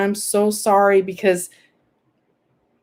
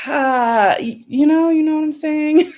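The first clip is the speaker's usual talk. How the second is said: real choked-up plea, pitched up; upset, near tears; 5 semitones higher than usual. Real, not acted. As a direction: fight back tears while asking to be understood. Upset, earlier fighting tears over news.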